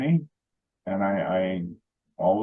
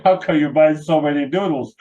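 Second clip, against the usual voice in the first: higher, louder puzzled shop clerk; 6 semitones higher, 8 dB louder than usual. Retold or imitated. The store clerk asks the speaker about his noodles, puzzled and loud. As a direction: ask like a baffled cashier.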